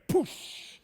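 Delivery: imitated airbag going off, high and voiceless; sudden mouth-made whoosh of an airbag; airbag burst. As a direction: blow out a sharp "poosh". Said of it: "immediately like an airbag".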